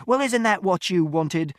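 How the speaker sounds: high, loud, slow jab; sneering shout. A narrator's reading. Father mocking mother, sneering shout. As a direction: sneer it back at her. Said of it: "And Father shouted".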